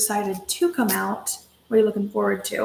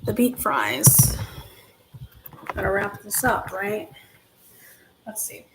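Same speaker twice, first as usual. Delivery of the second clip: whisper; 4 dB quieter than usual. Real, not acted. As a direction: whisper it like a secret. Teasing reveal of food.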